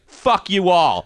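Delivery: high, slow, drawn-out curse; mock angry outburst. Comic to crowd after smashing phone, mock angry. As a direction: stretch it out in imitated defiance.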